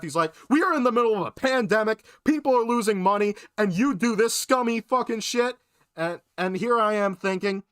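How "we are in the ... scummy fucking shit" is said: higher, faster imitation of a self-righteous rant; mock indignant husband. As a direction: scold in a rush, mildly hammed up. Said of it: "in the very next breath".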